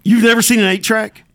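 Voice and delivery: high, loud disbelief; surprised. Real, not acted. Disbelief at young colleague.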